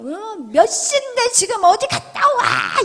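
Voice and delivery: loud, high-pitched mock scolding; nagging husband. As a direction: act out an irate spouse demanding an explanation. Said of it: "남편이 막 바가지를 긁고". (바가지 긁는 남편처럼 언성 높여)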